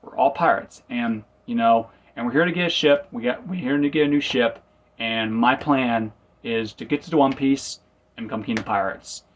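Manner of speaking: mock excited boast; lightly acted eager pirate boast. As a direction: proudly blurt it out like an eager kid. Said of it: "like, excited to say it".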